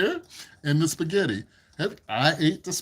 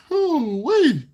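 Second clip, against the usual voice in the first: sudden surprise; 11 semitones higher, 6 dB louder than usual. Real, not acted. Sudden notice on stream.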